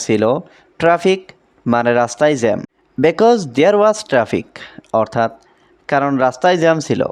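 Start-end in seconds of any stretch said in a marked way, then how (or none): 3.0-4.5 very slow, careful English; slow model sentence. Shown as a demonstration. Teacher modelling English for Bengali learners, very slow and careful. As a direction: stretch every word for learners. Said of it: "এখানে because".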